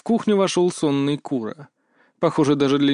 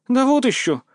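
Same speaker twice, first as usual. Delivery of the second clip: high, louder flustered scoff; embarrassed snort; 11 semitones higher, 4 dB louder than usual. Acted. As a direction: brush it off, caught out and embarrassed. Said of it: "фыркнула она смущённо". (смущённо фыркая, высоко и громче)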